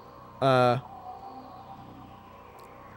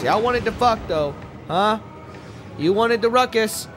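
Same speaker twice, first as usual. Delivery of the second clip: wrestler voice; 8 semitones higher than usual. Pretend. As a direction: cut a pro wrestling promo. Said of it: "I'm trying out my wrestler voice".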